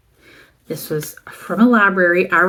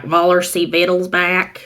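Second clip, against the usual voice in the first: put-on Southern accent German. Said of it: "the thickest Southern accent".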